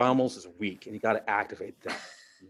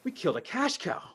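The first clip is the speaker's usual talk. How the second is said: panicking daughters; 4 semitones higher than usual. Retold or imitated. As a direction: squeal it like a panicked kid losing pocket money. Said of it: "They're like".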